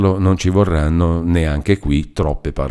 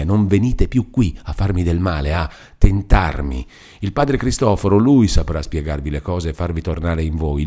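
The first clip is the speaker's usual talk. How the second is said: anxious, tearful pleading; Lucia begging. Acted. Lucia begs Renzo to stay away, anxious. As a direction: beg him not to come back.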